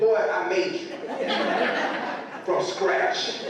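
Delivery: a mom amused at her son's cheek; laughing retort. Retold or imitated. Mom answers her son about the photo, laughing. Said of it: "I said".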